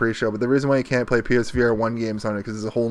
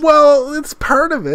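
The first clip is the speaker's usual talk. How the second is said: high mock voice; 15 dB louder than usual. Joking defence of VR content.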